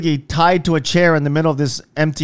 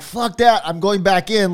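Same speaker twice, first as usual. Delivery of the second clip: determined; 5 semitones higher than usual. Retold or imitated. Retelling own defiant thought.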